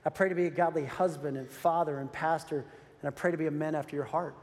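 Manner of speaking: a hint of a morning prayer at his knees; quoted prayer. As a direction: pray it humbly. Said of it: "I say".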